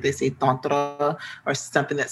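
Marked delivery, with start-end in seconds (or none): 0.3-1.2 Tantra with rounded, open vowels, roughly TAHN-tra; attempted Sanskrit pronunciation. Non-speaker imitating Sanskrit speakers, Tantra roughly TAHN-tra. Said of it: "someone who speaks Sanskrit".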